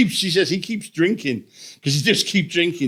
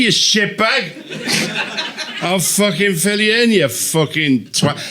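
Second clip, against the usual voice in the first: mock crowd work. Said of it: "I'll do crowd work to invisible people".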